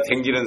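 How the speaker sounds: 댕기는 said in Chungcheong dialect instead of 다니는; 충청도 사투리로 댕기는. Shown as a demonstration. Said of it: "충청도 말입니다".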